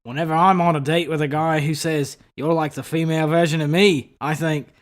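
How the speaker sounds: lightly put-on Australian accent. Shown as a demonstration. Player showing a friend how it goes, Australian accent. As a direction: do an Australian accent, building at the end. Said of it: "just do mine on Australian accent".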